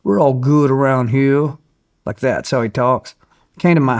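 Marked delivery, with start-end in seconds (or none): 0.0-1.6 put-on a light good old country boy drawl, slowed at the end; lightly voicing a folksy country official; country boy impression. TVA spokesman reassuring the host, lightly voiced country boy. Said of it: "talks like this".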